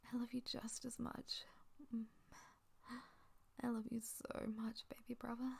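hushed, tender whisper. Acted. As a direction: whisper it softly and close. Tender roleplay, whispered throughout.

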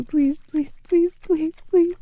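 desperate climbing pleas; rising desperate begging. Acted. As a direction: beg with climbing pitch. Escalating begging.

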